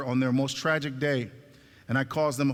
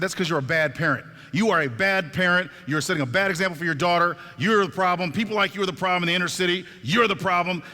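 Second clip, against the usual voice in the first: louder, punched accusations, reenacted; retold scolding; 3 semitones higher, 3 dB louder than usual. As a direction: scold a bad parent as in a retold quarrel. Acted quarrel, scolding the mother.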